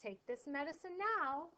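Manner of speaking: calm, even request. Shown as a demonstration. Teacher reading the line calmly to the class. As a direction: say it calmly, no force. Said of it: "saying it very calmly".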